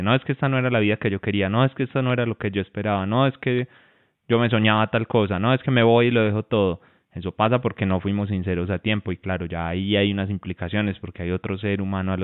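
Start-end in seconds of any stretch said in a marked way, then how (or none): 0.0-6.8 quick acted complaints, building in pitch and volume; sudden protest. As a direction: imitate a spouse suddenly pouring out regrets, rushed at first. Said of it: "y me dice".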